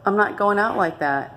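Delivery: refusing to give up; rising, defiant declaration; defiant vow. Retold or imitated. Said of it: "And I'm like".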